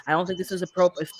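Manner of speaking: calm, controlled objection; classy, ladylike. Shown as a demonstration. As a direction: state displeasure politely and evenly. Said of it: "in a ladylike way or a classy way".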